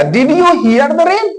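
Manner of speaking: very slow, careful English question; deliberate teacher read; slow example question. Shown as a demonstration. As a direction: draw the question out for learners. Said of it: "तो क्या बोलेगा?".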